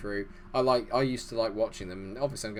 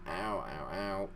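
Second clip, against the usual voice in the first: in pain; 4 semitones lower, 7 dB quieter, much slower than usual. Real, not acted. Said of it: "God, it's really sore".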